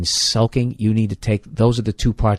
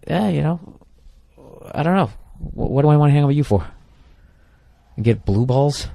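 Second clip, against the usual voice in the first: much higher, fast mock brush-off; dismissive guy; 7 semitones higher than usual. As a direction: toss it off with a whatever vibe. Acted phone call, brushing her off.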